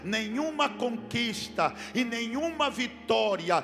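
voicing the lost son, swelling from firm to shouting; building to a shout. Preacher voicing the son's regret to the church, building to a shout. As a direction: let the son's regret build until it bursts out loud. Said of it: "E ele tá dizendo".

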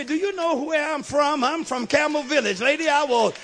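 loud, indignant comeback; the preacher acts out what he wanted to yell at the lady; mock confrontation. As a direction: tell her off, rising in volume. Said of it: "I want to say".

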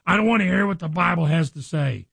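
imitated lashing out. People lashing out at the preacher over the Bible, mildly mock-angry. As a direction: act out someone angrily brushing you off. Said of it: "lash out to me".

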